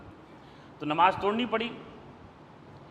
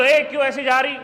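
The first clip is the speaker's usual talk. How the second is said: louder sharp rebuke, calling out; scolding call; 3 semitones higher, 5 dB louder than usual. Shown as a demonstration. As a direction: shout a reproach at her across the street. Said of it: "ایسے بولو کہ گفتگو نہ کہلائے". (بلند آواز میں ڈانٹ)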